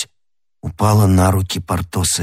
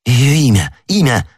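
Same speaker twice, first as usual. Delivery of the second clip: pitched-up, pressing demand; insistent questioning; 4 semitones higher, 3 dB louder than usual. Acted. D'Artagnan demands the woman's name, insistent. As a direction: press urgently for an answer. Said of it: "допытывался Д'Артаньян".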